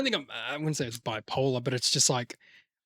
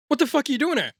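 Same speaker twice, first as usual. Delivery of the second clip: higher mock outburst; acted confrontation; 8 semitones higher, faster than usual. Film character confronting the other, mock annoyance.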